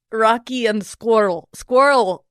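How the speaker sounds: cartoon Russian accent warm-up; tentative Russian accent practice; trial Russian accent. Shown as a demonstration. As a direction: feel out a mock Russian accent on "Squirrel". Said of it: "is me trying out a new accent".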